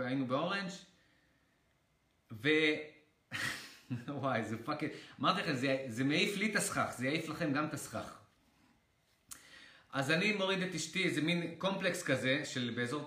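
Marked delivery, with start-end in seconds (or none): none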